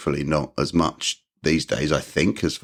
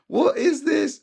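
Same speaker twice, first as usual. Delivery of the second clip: much higher, puzzled question; baffled; slower than usual. Retold or imitated. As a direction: sound completely lost by the music. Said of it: "I was like".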